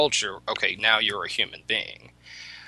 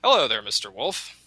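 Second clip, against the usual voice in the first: mock-polite, rising indignation, much higher; indignant rabbit; 3 semitones higher than usual. Rabbit lectures the tar wolf, huffy and high. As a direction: scold the silent wolf with prissy manners. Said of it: "Rabbit says".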